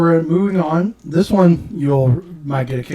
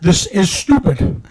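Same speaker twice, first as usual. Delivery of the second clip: Edge impression; 3 semitones higher, slower than usual. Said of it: "where Edge called everything stupid".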